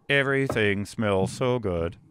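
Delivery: slow, even computer voice; synthesized speech voice. Retold or imitated. Host imitating a diner's speech computer, slow and even. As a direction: read it like an old speech synthesizer. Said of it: "you just hear the".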